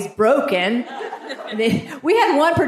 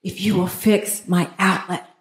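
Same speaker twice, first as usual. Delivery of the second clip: very calmly; 3 semitones lower than usual. Retold or imitated. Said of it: "I said very calmly".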